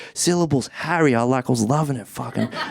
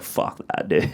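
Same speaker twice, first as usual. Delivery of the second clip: laughing quote; 4 dB quieter than usual. Retold or imitated. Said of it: "She's like".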